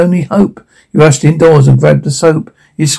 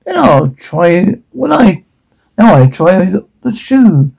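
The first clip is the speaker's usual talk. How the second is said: yelling; 4 semitones higher than usual. Acted. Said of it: "who yelled".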